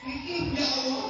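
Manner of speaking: put-on slow, mumbled childlike response; lightly voiced child. Child echoing mother's prayer, a hint of childish mumbling. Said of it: "Eh, anaknya jawab".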